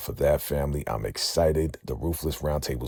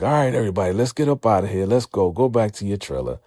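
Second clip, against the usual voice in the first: loud, raised call to the group; 4 semitones higher, 3 dB louder, faster than usual. Retold or imitated. Captor ordering everyone back to the trailer, loud call. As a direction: round everyone up and move them out.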